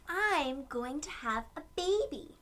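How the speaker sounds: a light, happy announcement from Mom; Mom announcing. Acted. Mom telling Aiden about the baby, lightly voiced and happy. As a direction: share the baby news brightly. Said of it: "Mom announced".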